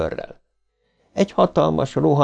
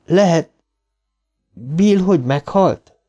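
anxious question; 7 semitones higher, slower than usual. A narrator's reading. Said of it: "Eddie asks fearfully".

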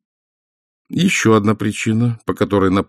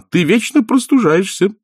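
firm; 11 semitones higher, 3 dB louder than usual. A narrator's reading. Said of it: "твёрдо ответила она".

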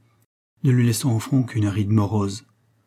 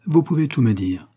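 raised pitch, "Vous pouvez tout me dire" lightly stressed word by word; stressing each word; 4 semitones higher, 3 dB louder than usual. A narrator's reading. Olivier invites Ned to confide, stressing each word of "Vous pouvez tout me dire". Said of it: "en accentuant chaque mot".

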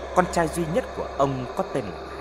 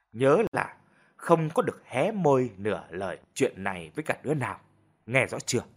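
softened voice; 2 semitones lower than usual. Acted. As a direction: settle down, then lay down the rule. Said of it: "khi đã hả giận bà dịu giọng". (mẹ đã nguôi giận, dịu giọng dặn con)

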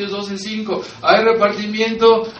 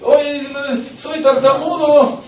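Moses protesting; 7 semitones higher, 7 dB louder than usual. Retold or imitated. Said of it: "Así como Moisés".

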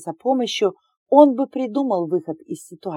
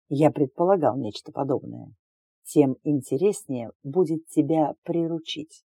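smug man voice; 4 semitones lower than usual. Acted. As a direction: play the smug alien suitor. The smug alien suitor speaks.

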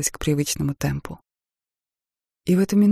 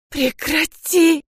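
much higher, slow, crying plea; sobbing cry; 11 semitones higher, 5 dB louder, much slower than usual. Acted. Wife sobbing at her husband to stop. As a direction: beg him to stop through sobs.

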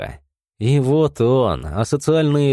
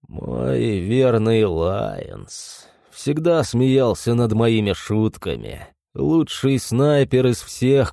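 wistful monster voice. Acted. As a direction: drift into a fond memory. Monster mourns lost friend.

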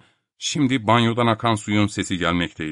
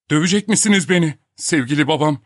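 higher, lightly put-on taunting voice; cheeky taunt; 6 semitones higher, 4 dB louder than usual. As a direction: ask it with mock affection. Topak taunts professor from the bathroom. (alaycı bir tonla)

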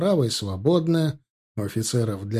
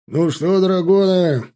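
louder, higher address to the ranks; raised voice; 7 semitones higher, 8 dB louder, slower than usual. A narrator's reading. General addressing the dragoon ranks: voice raised high. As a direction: lift your voice over the whole line. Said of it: "повысил он голос".

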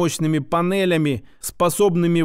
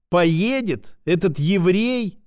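sarcastic drawl; slower than usual. Acted. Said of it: "саркастически протянули".

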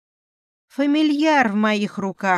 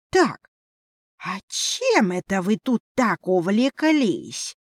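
восклицание; 3 semitones higher than usual. Acted. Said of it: "воскликнул".

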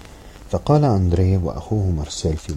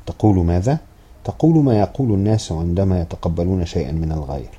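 scolding; 2 semitones higher, 6 dB louder than usual. Acted. Grandmother scolding boy.

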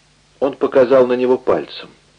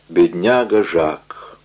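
cautious; 4 semitones lower, much slower than usual. Acted. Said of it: "осторожно вымолвил он".

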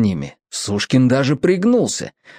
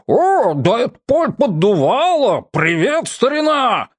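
joyful greeting; 9 semitones higher than usual. Acted. Dispatcher greets captain joyfully.

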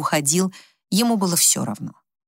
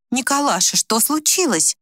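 frightened; 6 semitones higher than usual. A narrator's reading. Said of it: "испуганно спросила Вика".

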